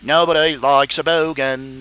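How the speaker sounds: put-on low, understated Australian accent. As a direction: slip into a low-key Aussie voice. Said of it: "all I can say in Australian".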